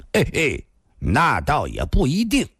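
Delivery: short dry chuckle, then doubt it; cold sneering laugh. Acted. Thin man contradicting the old storyteller, with a cold chuckle. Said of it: "突然冷笑一声".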